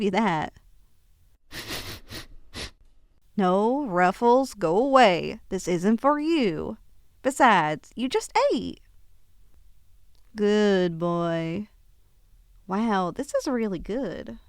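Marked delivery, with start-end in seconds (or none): 3.4-8.8 firm, slow shoo-away to a pet; a little louder, telling the dog off; mock-stern scolding of a begging dog. Real, not acted. Shooing the dog from dinner. 10.3-11.7 lower, gentle pet praise; praising the dog. Real, not acted. Praising the dog after scolding.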